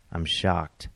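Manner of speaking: dry, unimpressed delivery; deadpan. Retold or imitated. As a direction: say it with zero surprise. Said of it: "I deadpanned".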